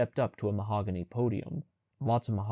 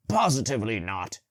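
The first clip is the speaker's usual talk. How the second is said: barked; 4 dB louder than usual. A narrator's reading. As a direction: bark it out, curt and loud. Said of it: "he barked".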